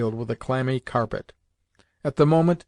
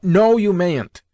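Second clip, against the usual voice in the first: slow, higher, louder, final; firm angry refusal; 6 semitones higher, 7 dB louder, slower than usual. A narrator's reading. Sister refusing her brother any criticism of Papa, slow firm anger. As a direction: shut him down word by word. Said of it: "repeated Lubotshka".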